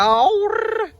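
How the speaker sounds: high, rising trilled cry; drawn-out trilled whoop. Real, not acted. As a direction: let it soar into a long high trill. Playful drawn-out noise after announcement. (ਲੰਮੀ ਉੱਚੀ ਕਿਲਕਾਰੀ)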